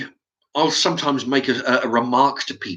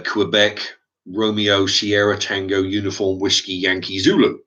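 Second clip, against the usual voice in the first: reciting phonetic alphabet; slower than usual. Shown as a demonstration. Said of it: "I'll go through it".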